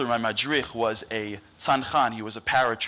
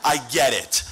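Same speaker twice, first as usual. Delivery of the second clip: louder, rising indignant rant; exasperated friend pushing back; 2 semitones higher, 3 dB louder than usual. Retold or imitated. Friend demands an explanation, loud and exasperated. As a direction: lay into him, getting more worked up. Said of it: "He goes".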